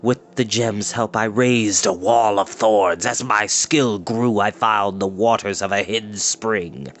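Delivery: a hint of a low, sneering old wizard; cold scorn of a wicked wizard, lightly voiced; lightly voiced wizard Morda. Wizard gloating to his captives, lightly voiced sneer.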